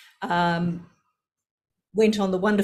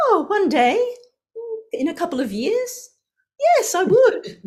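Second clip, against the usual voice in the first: dreamy hope; 13 semitones higher, 4 dB louder than usual. Retold or imitated. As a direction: float it up like a young girl's daydream. Dreamy inner thought retold.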